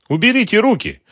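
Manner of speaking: high, loud indignant cry. A narrator's reading. Mara pushing the thug away, high and indignant. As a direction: order him off her, outraged. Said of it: "возмутилась она".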